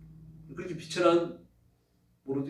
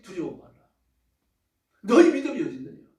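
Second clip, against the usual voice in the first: raised, rebuking voice of Jesus; scolding; 2 semitones higher, 5 dB louder than usual. Acted. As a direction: scold the disciples firmly. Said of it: "이건 야단치는 말씀이에요".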